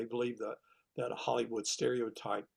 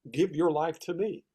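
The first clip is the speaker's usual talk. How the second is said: voice of God; 6 semitones higher, 7 dB louder than usual. Retold or imitated. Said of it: "it's like".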